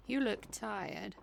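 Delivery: ordinary talk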